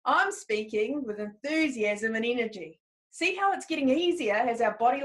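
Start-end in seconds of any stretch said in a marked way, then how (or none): 0.0-2.8 with a bit of passion. Shown as a demonstration. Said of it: "say it with a bit of passion".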